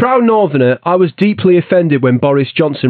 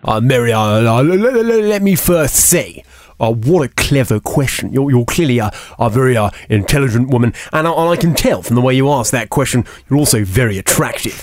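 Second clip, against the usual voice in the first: bumbling Boris; 3 semitones lower than usual. Acted. Boris impression flustered flattery.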